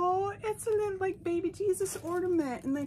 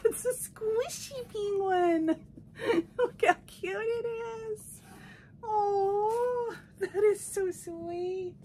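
high, slow, choked-up cooing; almost crying over a cute gift; teary delight; 6 semitones higher, slower than usual. Real, not acted. Unboxing a squishy penguin, teary high coo. Opening gifts, tearful.

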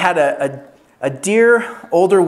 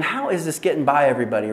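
inner grumble; 3 semitones lower, 6 dB quieter, faster than usual. Retold or imitated. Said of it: "So I'm thinking".

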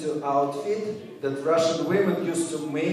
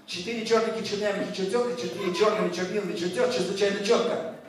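brisk, even tongue-twister recital; 4 semitones higher, much faster than usual. Shown as a demonstration. Performer demonstrates a hard tongue twister, rattled off evenly. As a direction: rattle it off in one run. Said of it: "Next tongue twister".

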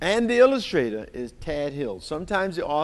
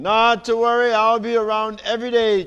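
high, quick cheerful chirp; the bird reassuring Rocket brightly; chirpy bird; 7 semitones higher, 6 dB louder, faster than usual. Acted. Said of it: "chirped the bird".

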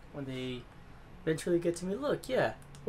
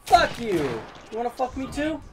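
loud, higher angry yell; angry shout; 7 semitones higher, 6 dB louder than usual. Real, not acted. Gamer yelling at the game, furious shout. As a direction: curse the game out at full volume.

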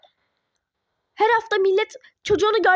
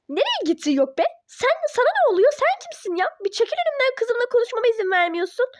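angry shout; 5 semitones higher than usual. Acted. Parent yelling at the teacher to step aside. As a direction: shove him aside with your voice.

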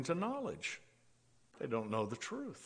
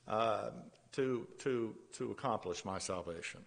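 mock anxious seeker; 4 dB louder than usual. Voicing a works-minded seeker.

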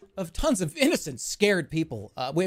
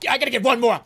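higher and louder, stalling for one more round; retold game plea; 7 semitones higher, 6 dB louder, much faster than usual. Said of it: "I was like".

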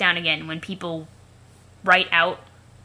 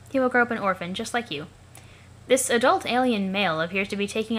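alien observer narrator; faster than usual. Acted. Observer narrating a youngster's new eyewear, lifted formal voice. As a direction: narrate like a fascinated onlooker, pitch lifted. Character voice narrating what is watched.

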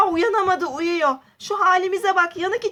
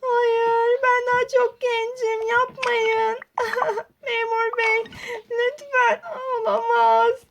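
tearful pleading; 4 semitones higher than usual. Acted. Aden hapse girerken ağlıyor.

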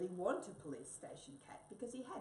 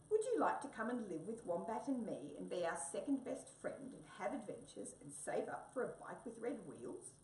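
eager mouse voice; 4 semitones higher than usual. Acted. Mouse invites the cat eagerly.

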